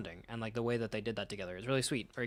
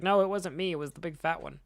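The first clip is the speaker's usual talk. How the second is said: mock panicked denial; 7 semitones higher, 5 dB louder than usual. Old man denies betrayal.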